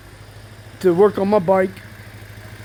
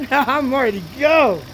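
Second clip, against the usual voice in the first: gym bro; 4 semitones higher than usual. Real, not acted. Hyped to ride the bike.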